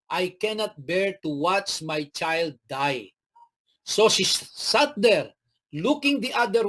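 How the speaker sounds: slow scripture read. Acted. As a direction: read the verse slowly and gravely. Preacher reads scripture aloud.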